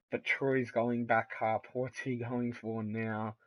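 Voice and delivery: lively ringside play-by-play; wrestling commentator. Acted. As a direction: call the match like live TV. Live play-by-play of match.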